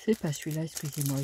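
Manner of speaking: words stretched by a yawn. Real, not acted. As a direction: talk through a yawn. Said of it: "Je baille, pas au cornet, mais je baille".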